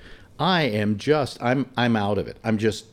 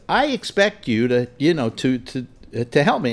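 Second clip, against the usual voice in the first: retold yelling; 2 semitones higher than usual. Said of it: "I started yelling at her".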